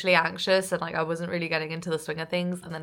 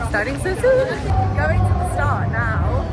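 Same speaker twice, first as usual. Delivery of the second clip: excited and rushed; 5 semitones higher, 6 dB louder than usual. Real, not acted. Rushing to the start line.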